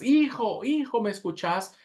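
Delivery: high, urgent call up to the window. A narrator's reading. Father at the building, calling up to his son. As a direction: call your son through the smoke. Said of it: "empezó a gritar con todas sus fuerzas".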